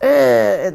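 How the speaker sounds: a disgusted sour grunt; mock the scowling face with a grunt; sour ugh. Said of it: "like this".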